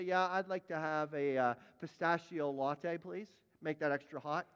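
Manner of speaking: low, offhand coffee order; drive-through customer. Acted. Preacher miming a coffee order at a drive-through, offhand and low. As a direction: lightly act out a casual customer ordering. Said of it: "pull up to the drive-through and say".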